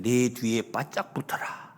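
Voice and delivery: slow, hushed, half-whispered command; retold protective order. Queen tells the maid to stay close behind, hushed and slow. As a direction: drop to a near-whisper, softly imitating a protector. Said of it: "그러면서 이런".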